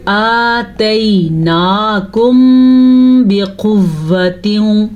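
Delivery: slow chant with the nasal hum held on the م; Quran recitation with ghunna. Shown as a demonstration. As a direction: draw out آتَيْنَاكُمْ and hum the م into بِقُوَّةٍ. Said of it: "یہاں پہ میں نے غنہ کیا ہے".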